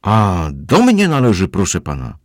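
loud boom. A narrator's reading. Housekeeper booms at Kozłowski, loud and slow. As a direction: hands on hips, boom it out. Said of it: "huknęła głośno".

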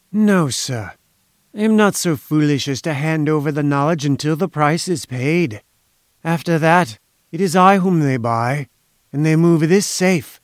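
put-on self-important inventor, lightly accented; silky foreign schemer. Inventor boasting that only he holds the secret, lightly smug. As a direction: boast with measured assurance, faintly foreign.

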